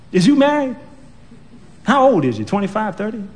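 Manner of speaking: put-on high, prying old lady; pry into his life; nosy old woman. Old woman quizzing the young man, high and nosy.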